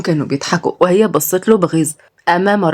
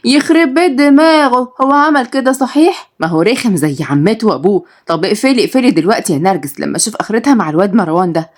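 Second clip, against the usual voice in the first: exasperated woman; 3 semitones higher than usual. Acted. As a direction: curse the boy in dismay. Somaya exclaiming.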